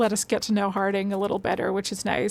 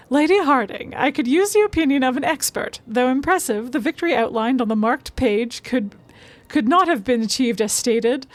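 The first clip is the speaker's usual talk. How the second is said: expressive, articulate reading; note read aloud; 3 semitones higher, 4 dB louder than usual. Acted. Streamer reading a baffled note to viewers, lightly acted read-aloud. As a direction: read the written query out with lively emphasis.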